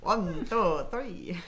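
the Count counting. Pretend. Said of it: "That's the count".

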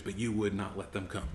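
sorrowful rebuke. Retold or imitated. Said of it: "to the religious leaders".

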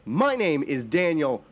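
slow grand announcer welcome; ringmaster. Acted. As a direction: draw it out like a showman.

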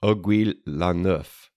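"Aiguille la Neuf" said the French way, /oɡwi lɑ nʊf/; "Aiguille la Neuf" with French vowels and a dropped final sound; French pronunciation. Shown as a demonstration. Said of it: "picture a, a Scotsman speaking Old French".

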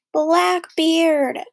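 high, loud excited cry; restrained scream of discovery. A narrator's reading. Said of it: "both screamed at the same time".

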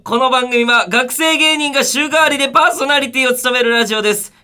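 high, loud announcer delivery; radio show opener. Acted. Host opening a student comedians' radio show, energetic announcer call. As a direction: belt out the programme introduction.

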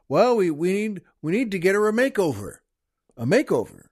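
lightly put-on old-time English voice; a hint of England in the thirties; thirties English accent. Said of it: "something from England in the thirties".

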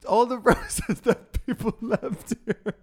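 mock quote through laughter; giggling while imitating her; laughing impression. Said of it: "you said".

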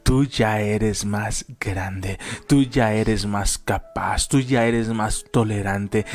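slow, deliberate stress on tú; slow motivational address. Acted. Speaker encouraging listeners, slow stressed tú. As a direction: build up the listener slowly.

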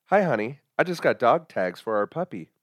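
lightly voiced husband; a hint of a cheerful husband. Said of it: "I'll even do voices".

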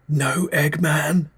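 high, slow, thin reedy voice; a reedy, wavering question. Acted. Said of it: "His voice was thin and reedy".

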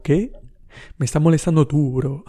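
bristling at being told off; indignant comeback. Retold or imitated. Snapping back at the owner, indignant.

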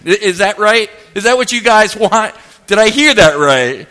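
mock-challenging prophet with attitude; retold sarcastic grilling; copping an attitude. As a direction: needle them as if they have some nerve. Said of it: "He actually cops an attitude".

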